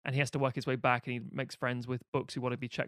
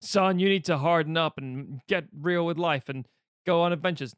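fifties dad; 3 semitones higher, 5 dB louder than usual. Retold or imitated. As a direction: lecture your son, lightly, like a fifties father. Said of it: "classic nineteen fifties dad thing".

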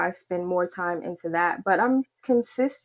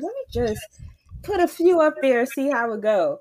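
high, light quoted thought; high mock inner voice; 5 semitones higher than usual. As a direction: lift it up high like thinking aloud. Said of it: "So I was like".

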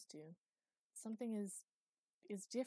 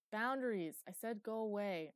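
cranky yell; 3 semitones higher, 7 dB louder than usual. Acted. Eli yelling at Luke to leave his room, cranky and loud. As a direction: push him out the door with your voice.

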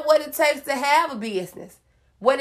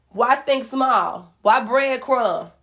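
slow rhetorical; much slower than usual. Real, not acted.

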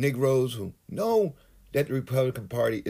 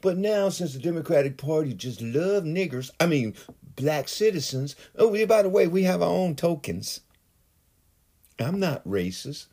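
mock conservative voice.

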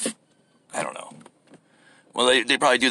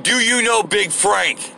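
reading the sign slowly; 5 semitones higher, slower than usual. Retold or imitated. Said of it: "written all over him".

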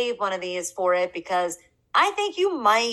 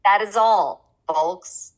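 a hint of Porky Pig signing off; lightly voiced cartoon pig sign-off; mock Porky Pig; much slower than usual. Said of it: "Like your Porky Pig".

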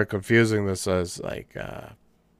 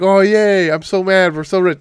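mock gleeful rich; 8 semitones higher, 5 dB louder than usual. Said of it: "it was like".

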